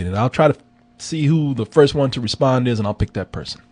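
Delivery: ordinary talk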